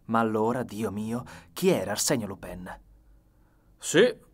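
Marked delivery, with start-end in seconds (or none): 3.8-4.3 high, loud exclamation; aloud. A narrator's reading. Nelly on the gangway, speaking aloud. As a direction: call it out loud. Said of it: "disse lei ad alta voce".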